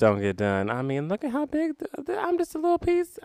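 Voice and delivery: rising playful voice. Retold or imitated. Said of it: "I was very much of the".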